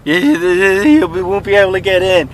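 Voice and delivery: lightly voiced high urgent friend; imitating a pushy friend's nagging; A J urging. A J nagging him to come early, lightly voiced high urging. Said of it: "and going like".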